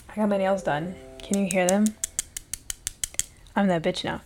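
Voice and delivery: loud, proud brag; excited. Real, not acted. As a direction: show off, bursting with pride. Showing off new nails.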